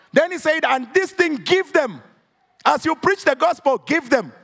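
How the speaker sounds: rising, emphatic preacher voice; preaching. Acted. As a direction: preach it out with full fervour. Preaching at full force.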